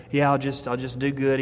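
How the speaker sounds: mildly acted half-hearted resolve; resigned shrug. Someone shrugging off hardship, lightly acted resignation. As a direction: say it as an offhand, shrugging concession. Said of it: "shrugging your shoulders and saying".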